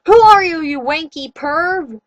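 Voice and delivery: loud high shout that slows on the insult. A narrator's reading. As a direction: yell it at the captor. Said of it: "I shouted".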